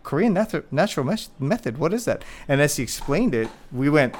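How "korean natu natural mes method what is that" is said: mock surprise. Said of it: "I went".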